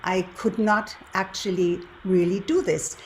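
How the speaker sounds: ordinary talk, nothing marked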